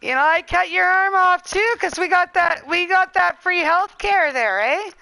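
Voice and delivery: lightly put-on Canadian accent; mock Canadian. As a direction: tease like a stereotype Canadian, eh. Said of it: "talk very Canadian".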